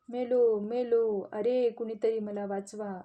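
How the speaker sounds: a wolf yelling he is done for; crying out. Acted. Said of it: "लांडगोबा मोठ्याने ओरडू लागले".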